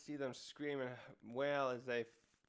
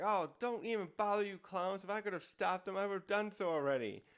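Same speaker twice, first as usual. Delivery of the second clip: higher-pitched, mildly raging yell; retold villain's irritated shout; mock angry yell; 4 semitones higher, 3 dB louder than usual. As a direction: yell down at them in half-hearted rage. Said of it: "he actually yells down to them".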